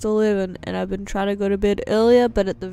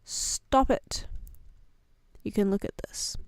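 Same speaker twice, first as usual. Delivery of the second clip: whisper; 5 dB quieter than usual. Real, not acted. Embarrassed whispering.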